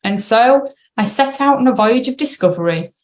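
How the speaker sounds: measured read-aloud voice with pauses between sentences. Real, not acted. Coach reading an article to clients, careful read-aloud. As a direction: read it out carefully for listeners to follow.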